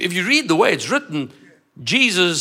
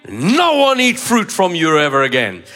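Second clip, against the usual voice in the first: bold, loud command; 4 dB louder than usual. Acted. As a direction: declare it boldly and loudly. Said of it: "He spoke boldly and he spoke loudly".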